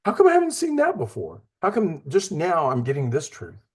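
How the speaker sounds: jumps very high in amazement; stunned by a newly noticed verse; sudden surprise. Retold or imitated. Bible reader amazed by a verse, very high pitched. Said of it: "and you're like".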